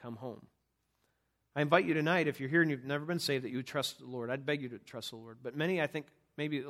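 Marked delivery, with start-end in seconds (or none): 0.0-0.5 gentle invitation. Acted. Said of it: "and he says".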